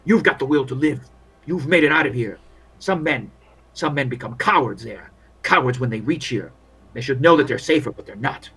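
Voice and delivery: world-weary field doctor grumbling; lightly voiced war medic venting doubts; weary army doctor.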